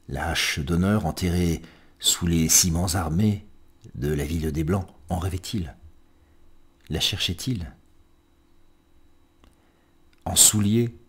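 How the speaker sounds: measured, solemn recital with long pauses between lines; poem reading. Acted. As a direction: recite line by line, letting each question fall away. Reads a poem aloud. (lecture de poème posée, entrecoupée de silences)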